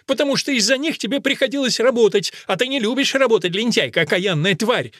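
put-on high, loud furious outburst at the girl; nun shouting in rage; angry shout. A narrator's reading. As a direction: yell the accusation. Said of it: "закричала мать Анхелика".

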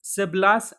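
سبلاس drawn out with a rising end; سبلاس said se-blas in a questioning rise; demo pronunciation. Shown as a demonstration. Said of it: "انظر كيف نطقنا".

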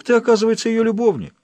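high, loud, outraged accusation; jealous barbarian yelling at the captive; furious accusing shout. Acted. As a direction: hurl it at him in jealous rage. Rollo confronts Emma's lover.

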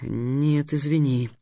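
lost in thought, brushing her off; thoughtful. Acted. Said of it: "задумчиво сказал Трикс".

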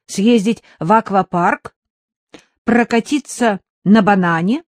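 put-on high, eager boyish report; enthusiastic boy. Son lists promised treats to mother, enthusiastically. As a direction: rattle it off thrilled like a kid. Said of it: "восторженно докладывал Мишка".

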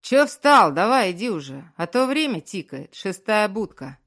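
loud, annoyed guard barking orders; gruff guard yelling, impatient; irritated shout. A narrator's reading. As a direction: snap at him to keep moving. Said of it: "раздражённый окрик".

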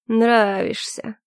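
slow, bitter repetition. Acted. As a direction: drag the word out bitterly. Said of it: "ещё раз горько повторил он". (горько, медленно)

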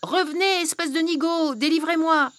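commanding witch. Acted. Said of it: "Elle ordonna".

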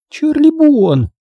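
very high, loud, drawn-out scolding cry; shocked, high-pitched telling-off; Maisie exclaiming. A narrator's reading. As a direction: exclaim the full name in outrage. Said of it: "воскликнула Мэйзи".

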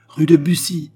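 loud, high-pitched call; shouted to coachman. A narrator's reading. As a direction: call the address out to a driver. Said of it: "cria Baccarat au cocher".

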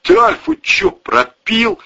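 shocked gangster asking; surprised. Acted. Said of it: "удивился Валерий".

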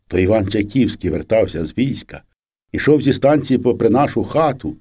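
ordinary delivery, nothing marked

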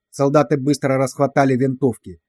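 plain reading voice

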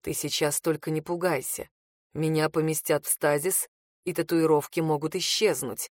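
calm a frightened lover; Reed, gently. A narrator's reading. Reed reassures her he will return, low and gentle.

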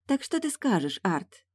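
languid temptress voice; sultry voice. Acted. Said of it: "томным голосом".

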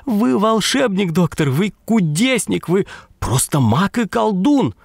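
high, gushing woman's praise; восторженная дама. A narrator's reading. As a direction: pour out praise in a thin high voice. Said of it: "всё время приговаривая". (дама восторженно хвалит доктора, высоко)

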